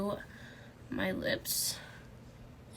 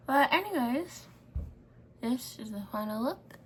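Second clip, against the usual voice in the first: mouth propped open; 2 semitones higher than usual. Real, not acted. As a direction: mouth held open by fangs. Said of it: "I can't close my mouth".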